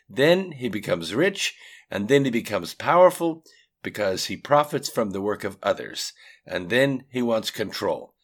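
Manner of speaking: frustrated Russian man explaining; frustrated Russian accent. A narrator's reading. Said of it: "dropping his arm in frustration".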